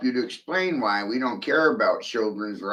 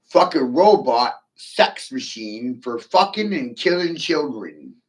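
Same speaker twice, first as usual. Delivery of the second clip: hint of a hammed-up mad scientist, louder; lightly voiced mad scientist boast; mad scientist impression; 3 semitones higher, 4 dB louder than usual. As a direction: play it like a crazed lab villain, slowing down. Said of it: "The Rock Johnson playing a mad scientist".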